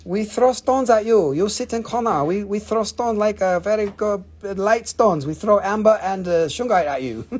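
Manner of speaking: put-on playful crystal jailer with a Czech accent; joking threat in broken English, Czech accent; lightly put-on Czech accent; mock Czech accent. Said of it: "Shouldn't it have a Czech accent?".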